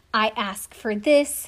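slow, drawn-out, overly earnest; milk each word like a soap opera; mock dramatic plea. Contestant pleading with her fiancé, slow mock melodrama. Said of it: "that shit was dramatic".

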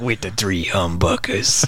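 put-on a slow, drawling old shop owner voice that breaks into laughter; slow old storekeeper voice, fighting a laugh; old-timey shop owner voice. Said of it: "He's like".

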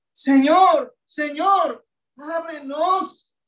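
un "Señor" fuerte que clama, luego "ábrenos" lento y suplicante; clamor suplicante. Retold or imitated. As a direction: clama a gritos que abran la puerta. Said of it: "con, con clamor". (las vírgenes suplican al Señor desde afuera, con clamor)

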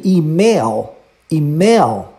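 email as "EE-mail", no final oo; English email. Shown as a demonstration. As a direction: stress the first syllable of email, keep the L. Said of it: "essa é a pronúncia correta". (email pronunciado "imél")

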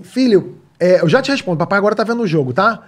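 playing his own distracted dad self; mock patient dad. Dad telling son to wait during the game. Father voicing himself to child.

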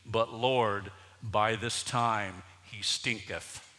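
put-on reading the old verse with a chuckle; amused reading. Shown as a demonstration. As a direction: read it, laughing at the word stinketh. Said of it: "I am not making this up".

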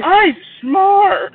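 nerd voice. Retold or imitated. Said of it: "Sheldon impression".

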